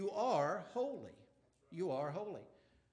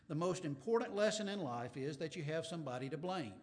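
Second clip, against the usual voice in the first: sarcastic; 2 semitones lower, faster than usual. Pretend. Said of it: "I said that sarcastically".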